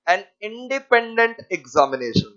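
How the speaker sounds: very slow dictation; dictation pace. Shown as a demonstration. Teacher dictating definition to class, very slow. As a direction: drag each word out for notes. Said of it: "इतना fast बोल रहे हो".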